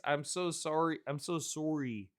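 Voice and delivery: soft apology in a put-on Canadian accent; mock Canadian accent. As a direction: slip into Canadian vowels on sorry. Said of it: "spontaneously transform into Canadian".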